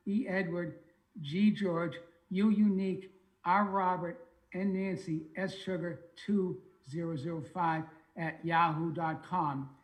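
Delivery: natural Boston accent spelling an email. Real, not acted. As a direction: speak it with his own Boston accent. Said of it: "I'm told I still have my Boston accent".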